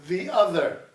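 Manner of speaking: "The other." with both th sounds made between the teeth; clear th sound. Shown as a demonstration. Teacher drilling "The other." for the class. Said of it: "do what I do".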